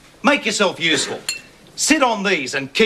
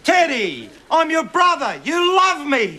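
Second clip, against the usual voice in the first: hearty teasing greeting; 13 semitones higher than usual. Acted. Bob loudly teasing old Ted.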